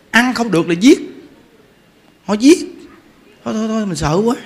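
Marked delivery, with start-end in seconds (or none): none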